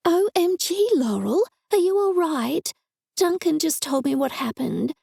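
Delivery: high, breathless worried friend; excited worried friend. Acted. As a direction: gush with alarm on the phone.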